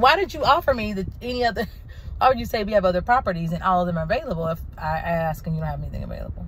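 exasperated retort. Retold or imitated. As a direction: demand answers in disbelief. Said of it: "I was like".

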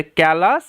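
ক্যালাস with "ous" said as "as"; careful pronunciation demo. Shown as a demonstration. Teacher confirming the spelling pattern, careful pronunciation demo. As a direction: repeat ক্যালাস clearly for learners. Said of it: "আস, এরমভাবে উচ্চারণ হবে".

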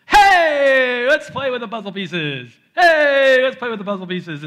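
put-on high, loud excited toddler shout. Dad imitating his toddler son, high loud glee. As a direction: play the gleeful little boy tossing puzzle pieces. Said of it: "all he wants to do is".

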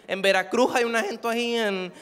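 coastal Veracruz accent with aspirated s. Shown as a demonstration. Comic listing places with this accent, Veracruz accent. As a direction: drop the consonants like a Veracruz local. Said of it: "no solamente en Acapulco hablan así".

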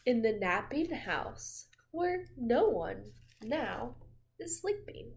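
slow storybook ending; reading to children. A narrator's reading. Finishing the bedtime book for the child, slow. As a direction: wrap up the story gently.

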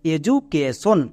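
এ জু কে সন in four distinct beats; measured word demonstration of এ জু কে সন; syllable by syllable. Shown as a demonstration. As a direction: sound out এ, জু, কে, সন for learners to copy. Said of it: "এবার একসঙ্গে উচ্চারণ করো".

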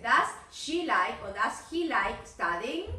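"like" said bare, ending on k; teacher models "like" with no s. Shown as a demonstration. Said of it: "No pronunciar esa S".

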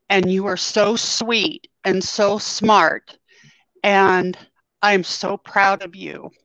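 holding back tears while quoting her father; real emotion catching in the throat; choked up. Real, not acted. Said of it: "I'm probably gonna get choked up".

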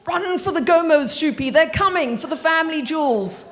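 high and loud mock panic; shrieking panic. A narrator's reading. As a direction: cry out as if fleeing in mock terror. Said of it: "Dad shrieked".

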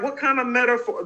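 mock the confusion of his teenage self; teen fan confused by the review, high and incredulous; baffled teen. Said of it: "This is the fourteenth going on fifteen-year-old me".

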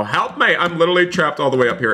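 high, hurried plea; mock cry for help. Gamer trapped up high asking viewers, mock plea for help.

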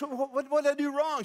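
a touch of a baffled husband pleading to know his mistake; bewildered husband. Retold or imitated. Husband stunned by his wife's tears, high confused plea. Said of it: "And he goes".

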